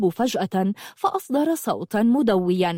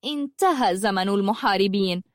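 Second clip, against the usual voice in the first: contemptuous. Acted. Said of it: "بازدراء وقالت".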